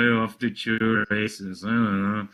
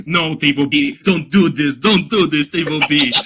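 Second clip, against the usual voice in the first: mock plea; 6 dB louder than usual. Mock pleading with rulebook.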